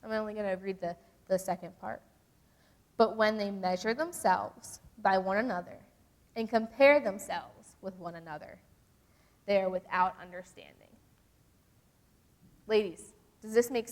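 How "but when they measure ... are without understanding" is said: measured reading with pauses between phrases; deliberate, phrase-by-phrase scripture reading; slower reading. Shown as a demonstration. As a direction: read it slower so they think about it. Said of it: "I'm gonna read that slower".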